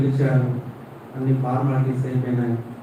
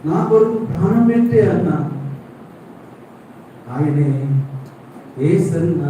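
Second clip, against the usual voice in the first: preaching at full force; 3 semitones higher than usual. Acted. Preacher telling the congregation Jesus died for them, at full force. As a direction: build the altar call to a roar.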